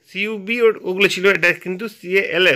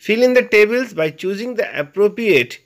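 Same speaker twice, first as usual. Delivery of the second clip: slow reading; 2 semitones higher, much slower than usual. Shown as a demonstration. Teacher reads task instruction.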